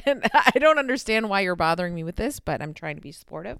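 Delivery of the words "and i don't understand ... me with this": laughing. Real, not acted. Laughing, annoyed at being interrupted.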